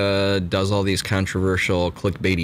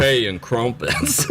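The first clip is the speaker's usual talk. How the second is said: slow, hammed-up British accent; mock posh British accent; slower than usual. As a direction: drawl it like a cartoon Englishman. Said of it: "do a Southern accent with the U K accent".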